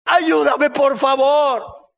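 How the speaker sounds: high, desperate mother's plea; acted weepy cry for help; tearful pleading. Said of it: "con lágrimas de los ojos".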